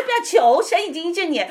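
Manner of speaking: telling the woman to stop begging, loud and firm; firm loud command. Retold or imitated. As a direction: cut her off, don't beg. Preacher correcting the sick woman.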